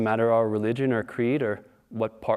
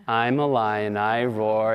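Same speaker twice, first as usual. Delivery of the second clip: sheepish; 2 semitones lower, slower than usual. Retold or imitated. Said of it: "said sheepishly".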